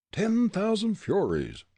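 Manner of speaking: high, slow, loud yell; slow loud frightened yell. A narrator's reading. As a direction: yell in terror. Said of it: "Gregg yelled".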